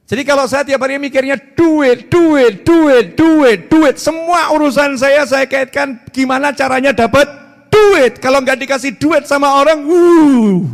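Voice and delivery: makin keras dan tinggi tiap duit; kejar-kejar duit, makin ngotot; meniru orang gila duit. Acted. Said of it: "lagi menyindir diri sendiri". (meniru orang yang terobsesi duit)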